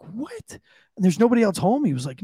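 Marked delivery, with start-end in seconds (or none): 0.0-0.5 shocked whisper. Retold or imitated. Shocked reaction retold. 0.5-1.8 whispered disbelief. Retold or imitated. Disbelief at child alone.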